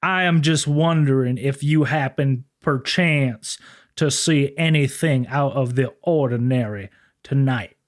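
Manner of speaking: slow, prim and formal cop voice; a humble, overly polite officer of the law; mock-gentlemanly lawman. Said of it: "Sisko was actually a Southern law enforcement officer".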